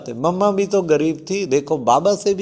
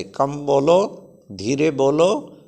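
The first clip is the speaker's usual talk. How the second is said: slow gentle advice; slower than usual. Retold or imitated. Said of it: "क्यों बाबा कहते".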